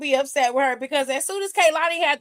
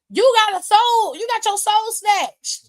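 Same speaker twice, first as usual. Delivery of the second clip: mock outrage; 8 semitones higher, 4 dB louder than usual. Real, not acted. Mocking the champion's outrage.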